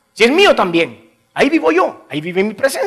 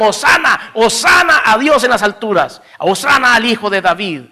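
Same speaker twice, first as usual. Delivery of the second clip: louder, higher cry of hosana; retold crowd acclamation, raised and ringing; crowd shouting hosana; 4 semitones higher, 4 dB louder than usual. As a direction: call it out like the crowd at the gates. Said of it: "le gritaron".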